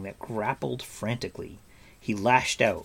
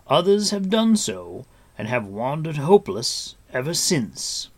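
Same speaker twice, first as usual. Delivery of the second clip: higher, louder, sonorous character voice; Gwydion, grave warrior; 5 semitones higher, 6 dB louder than usual. A narrator's reading. Gwydion answering Taran about the Hunter, grave. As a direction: proclaim it like an old lord.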